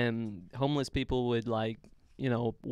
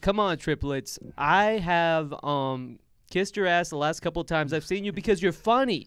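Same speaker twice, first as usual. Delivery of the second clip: wrestling promo; 5 semitones higher than usual. Acted. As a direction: call them out like a wrestler. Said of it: "Let's do this W W F style".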